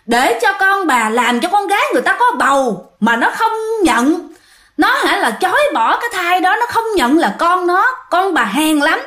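high, accusing rant at the mother; possessed son cursing his mother, high and accusing; possessed scolding. Retold or imitated. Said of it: "nó chỉ vô mặt mẹ nó mà nó chửi".

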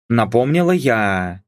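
ordinary delivery, nothing marked

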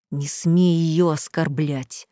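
slow, low hiss; menacing slow hiss. Acted. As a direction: hiss it through the teeth. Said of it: "прошипел Саид".

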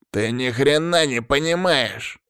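high, drawn-out frantic yell; strained, high-pitched acted shout. A narrator's reading. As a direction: cry it out in frustrated rage. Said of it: "закричал он".

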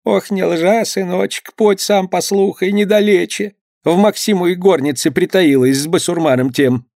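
put-on high, urgent old mother; old mother begging her son to come and see; pleading mother. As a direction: press him, voice up high. Mother urges son to catch wife.

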